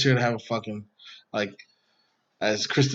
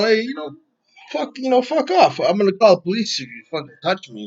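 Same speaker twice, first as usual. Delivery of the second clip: retold telling-off; 6 semitones higher than usual. Retells himself telling her off.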